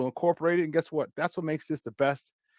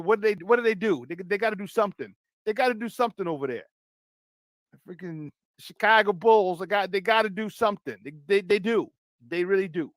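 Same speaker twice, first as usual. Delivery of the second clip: hammed-up Chicago accent, slightly raised pitch; 3 semitones higher than usual. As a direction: play it as a local Chicago sports fan's accent. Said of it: "In my Chicago accent".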